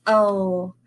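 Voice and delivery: "Oh." said as a held L with the tongue lifted; L sound demo. Shown as a demonstration. Teacher showing children the L sound, clear demo. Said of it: "when you say".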